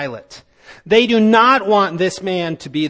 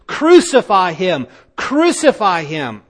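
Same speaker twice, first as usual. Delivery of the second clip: crowd shouting; 3 dB louder than usual. Acted. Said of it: "they kept on shouting".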